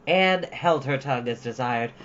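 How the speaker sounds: ordinary delivery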